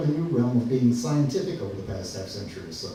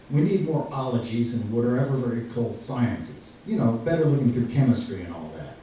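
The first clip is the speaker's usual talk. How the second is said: dry, mock-serious proclamation; sarcastic. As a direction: argue it sarcastically, as if fully convinced. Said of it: "in as sarcastic a way".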